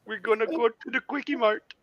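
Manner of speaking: put-on Indian accent. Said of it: "we're a bunch of racists".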